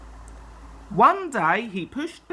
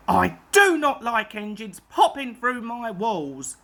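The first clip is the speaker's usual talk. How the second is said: fuming; 2 semitones higher than usual. Acted. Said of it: "he fumed".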